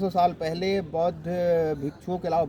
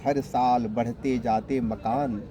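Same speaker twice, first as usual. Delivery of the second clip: poem recitation. Acted. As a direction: recite solemn verse line by line. Recites translated Chinese poem. (गंभीर कविता पाठ, ठहर-ठहर कर)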